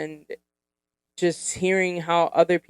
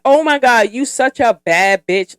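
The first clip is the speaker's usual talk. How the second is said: put-on hyped girlfriend; 5 semitones higher, 5 dB louder than usual. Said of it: "when a woman looks at you and be like".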